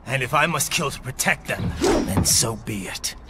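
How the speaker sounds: firm declaration. Acted. Vows to kill if he must.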